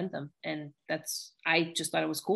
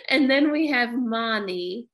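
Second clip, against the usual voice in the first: laughing; 5 semitones higher, 4 dB louder, slower than usual. Real, not acted. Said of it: "laughing through line".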